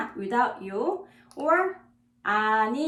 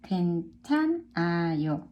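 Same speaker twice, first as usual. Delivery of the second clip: a lower, put-on take of 괜찮아요; 괜찮아요 voiced low and changed; low different voice; 5 semitones lower than usual. Shown as a demonstration. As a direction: say it lower, in another voice. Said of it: "One more time".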